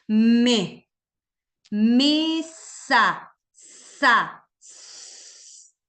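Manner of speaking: "Me, mesa, sa, s" with each sound held long and loud; prolonged sounds. Shown as a demonstration. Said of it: "Prolongo el sonido". (sonidos prolongados)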